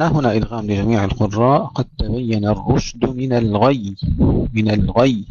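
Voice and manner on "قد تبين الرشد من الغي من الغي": الغي with a pushed غ and firm double ي; doubled final ya. Shown as a demonstration. Teacher models the verse, doubled final ya. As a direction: push off the غ to land on a doubled ي in الغي. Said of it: "انتبهوا إلى دفع الغين حتى نشدد الياء".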